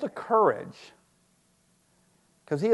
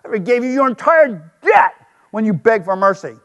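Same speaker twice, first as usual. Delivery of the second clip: angry king; 3 semitones higher, 3 dB louder than usual. Acted. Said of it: "The king summoned the man and said".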